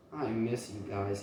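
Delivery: soft, hushed longing; half-whispered to the absent family; soft whispered wish. A narrator's reading. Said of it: "he whispered".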